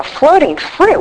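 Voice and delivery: high, disbelieving question; mocking disbelief at the sponsor's odd phrase; incredulous echo. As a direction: repeat it like you can't believe it.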